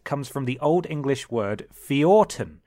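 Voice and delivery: slow, deliberate reading. Real, not acted. Reads the fact slowly.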